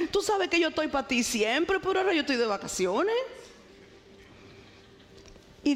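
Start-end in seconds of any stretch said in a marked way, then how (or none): 0.1-3.2 "ahora" acentuado y dicho rápido; más rápido. Retold or imitated. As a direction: suelta la excusa de prisa, "ahora" con fuerza. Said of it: "de osada, le digo". (apresurada, insiste en "ahora")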